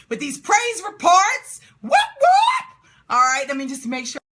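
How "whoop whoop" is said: high, loud cheering whoop; excited whoop. Real, not acted. Cheering praise reports.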